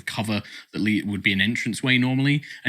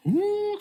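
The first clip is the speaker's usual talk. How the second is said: ghostly ooh; high ghostly wail sound; haunting wail. Shown as a demonstration. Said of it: "kind of like this".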